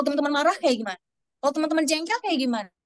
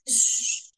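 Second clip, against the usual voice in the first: shushing. Shown as a demonstration. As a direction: hush the kids before the story. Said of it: "bisa mulai dengan, eh, kalimat". (desisan "shh" yang lembut)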